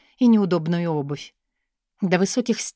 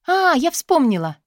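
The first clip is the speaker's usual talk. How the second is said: much higher, louder sudden recall; exclaiming; 9 semitones higher, 5 dB louder than usual. A narrator's reading. Katya to the angry guard, mock sudden exclamation. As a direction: burst out as if just remembered. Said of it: "воскликнула Катя".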